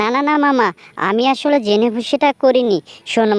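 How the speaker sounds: high, pleading fox begging for mercy; panicked little fox pleading; frightened pleading. Acted. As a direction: beg the tiger for your life. Fox begs angry tiger again.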